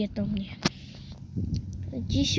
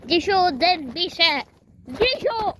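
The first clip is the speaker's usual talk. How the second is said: calling out; 4 semitones higher than usual. Pretend. Calling the lost toy.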